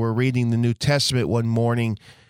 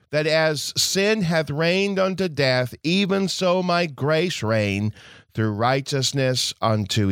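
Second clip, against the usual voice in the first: scripture reading. Acted. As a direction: read the verses with solemn weight. Reads scripture aloud in sermon.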